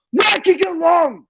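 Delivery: slow, hammered-out yell of frustration; real exasperated fan; angry shout. Real, not acted. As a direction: demand an answer at full volume. Furious rant about tactics.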